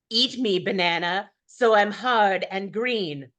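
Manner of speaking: green banana voice. Acted. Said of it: "can't do both voices".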